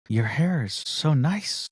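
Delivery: slow, drawn-out compliment; buttering her up. Retold or imitated. Passenger opening with a compliment to the gate agent, buttering her up. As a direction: lay the flattery on slowly. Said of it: "Come in with a compliment".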